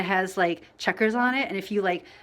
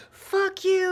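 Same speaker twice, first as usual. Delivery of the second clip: high, loud mock yell at a child; mock scream; 12 semitones higher, 4 dB louder than usual. The rude dad yells at his daughter, a mock scream. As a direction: bark it like the angry dad, hammed-up. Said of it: "he, like, screamed".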